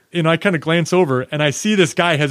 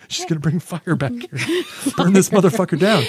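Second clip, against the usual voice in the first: laughing; 4 semitones higher than usual. Retold or imitated. Mocking fear of a torch.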